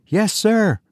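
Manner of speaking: high-pitched deferential servant. A narrator's reading. Pale servant answering growling Tussman, high deferential voice.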